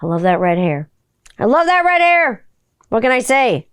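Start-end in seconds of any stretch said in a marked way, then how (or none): 1.4-2.5 high, put-on exclamation; high-pitched gush. Gushing over red-haired Spice Girl, high put-on voice. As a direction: gush it in a much higher voice.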